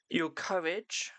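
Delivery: hushed ominous whisper for the verse. Acted. Reading the coffin card verse to viewers, whispered. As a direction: breathe the line as a dark warning.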